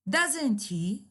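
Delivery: "Doesn't he?" as a falling tag; falling intonation. Shown as a demonstration. Teacher shows the tag going down, falling intonation. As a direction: bring "Doesn't he?" down, expecting agreement. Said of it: "is falling".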